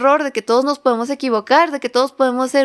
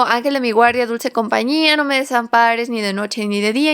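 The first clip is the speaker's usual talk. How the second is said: put-on childlike prayer recitation; child reciting prayer. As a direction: recite "Ángel de mi guardia" like a small child. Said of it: "yo decía así como".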